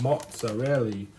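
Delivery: "Mozzarella" drawn out slowly, as a catchphrase; playful Fonzie-style quote. Pretend. Cook joking about Happy Days, slow mock Fonzarelli voice. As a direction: stretch the word out like a mock catchphrase. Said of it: "He's like".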